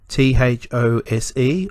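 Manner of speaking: T H O S E named letter by letter; spelled out. Shown as a demonstration. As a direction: spell out T H O S E evenly. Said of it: "spell the word out".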